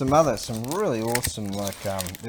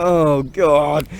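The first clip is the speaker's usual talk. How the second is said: mock dismay; 6 semitones higher, 12 dB louder than usual. Recruit reacting to sergeant.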